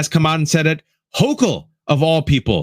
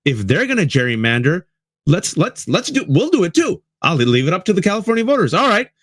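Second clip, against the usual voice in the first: voicing Newsom; 5 semitones higher than usual. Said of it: "he said".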